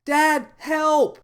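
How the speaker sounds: very high, loud panicked cry; a terrified girl crying out for mom and dad; weak call for help. A narrator's reading. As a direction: call out desperately for her parents. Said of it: "called out in a weak voice".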